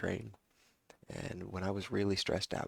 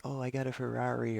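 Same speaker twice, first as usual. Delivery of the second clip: higher-pitched mock boast; mocking braggart; 5 semitones higher than usual. Mimicking people bragging about a Ferrari, mocking braggart. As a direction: imitate a show-off with a crappy attitude. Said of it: "just a really crappy attitude".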